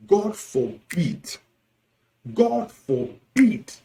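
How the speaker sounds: "God forbid" drawn out slowly, each word separate; emphatic rejection. Shown as a demonstration. Teacher demonstrating how to reject bad words, emphatic. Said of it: "emphatic rejection".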